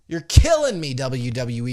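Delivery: loud, pained complaint; exasperated outburst. Real, not acted. Fan complaining to WWE, exasperated and loud. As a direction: burst out in fan frustration.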